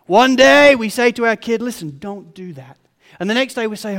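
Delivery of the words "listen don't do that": measured, mild parental telling-off; calm instruction. Retold or imitated. Parent to kid on one day, calm instruction. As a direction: lay down the rule without raising the voice.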